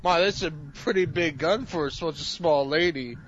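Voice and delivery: lightly snarky superhero quip; a touch of sarcastic wonder. Acted. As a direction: toss it off with mild mock admiration. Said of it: "say something snarky and sarcastic".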